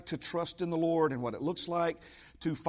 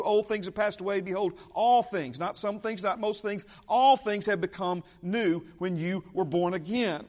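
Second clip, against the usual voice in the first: preaching at full force; 3 semitones higher than usual. Real, not acted. Preacher driving point home.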